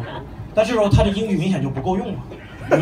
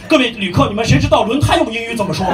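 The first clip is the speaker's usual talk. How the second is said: nervous flight attendant; 3 semitones higher, 6 dB louder than usual. Retold or imitated. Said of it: "空姐特别紧张".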